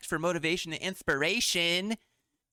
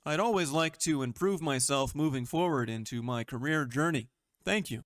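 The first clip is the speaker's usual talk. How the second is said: corporate voice. Acted. Job seeker asking a recruiter why they were rejected, in a polished corporate voice. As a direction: sound like the perfect applicant emailing HR. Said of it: "put on my corporate voice here".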